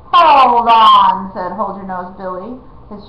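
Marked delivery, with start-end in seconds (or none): 0.1-1.3 louder, sharp stop; loud halt. Acted. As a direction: stop everyone short. Outlaw halts them.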